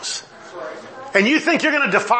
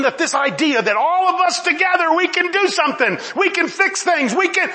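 high, driving pulpit delivery; impassioned preaching; 9 semitones higher than usual. Acted. Preacher voicing the humanists' confidence to his congregation, impassioned. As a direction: preach it with mounting urgency.

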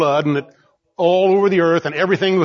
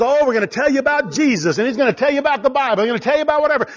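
higher, rattled-off parody of a TV preacher; sing-song mockery of a slick show; 5 semitones higher, much faster than usual. Preacher mocking a TV show host, sing-song. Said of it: "some show where it says".

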